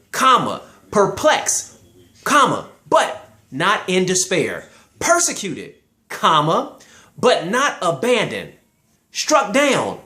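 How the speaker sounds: slow, with a full stop at every comma; pausing at each comma. Shown as a demonstration. Preacher reading scripture slowly, stressing each pause. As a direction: let each comma hang before but not. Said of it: "Read it this way. A comma just means a pause".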